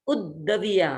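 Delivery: उद्दविया with the first द joined to उ; उद्दविया with a double द. Shown as a demonstration. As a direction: hold the द्द in उद्दविया. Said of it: "एक द को ऊ के साथ बोल देंगे".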